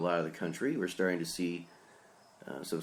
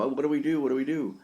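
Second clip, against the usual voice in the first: higher-pitched imitation of people panicking; mock panic; 6 semitones higher, 3 dB louder, faster than usual. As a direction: imitate them fretting, pitch raised. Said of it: "they're still panicking".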